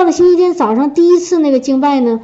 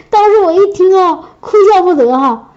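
a laugh that catches into a sob; tearful laughter, torn between laughing and crying; laughing through tears; 5 semitones higher than usual. Real, not acted. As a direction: laugh and tear up at once.

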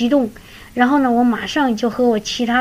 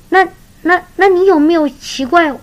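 a touch of pressing eagerness, higher and louder; husband presses wife, why no surprise, mildly excited; eager retold question; 6 semitones higher, 5 dB louder than usual. Husband presses his wife about his news, mildly excited.

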